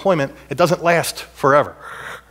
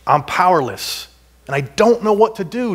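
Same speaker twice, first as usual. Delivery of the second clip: Jehoshaphat's prayer; 4 semitones higher than usual. Retold or imitated. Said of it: "He says".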